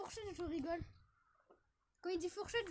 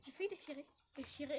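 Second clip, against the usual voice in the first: slushy lisp; 3 semitones lower, 6 dB quieter than usual. Real, not acted. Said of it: "je chuchote, je zozote".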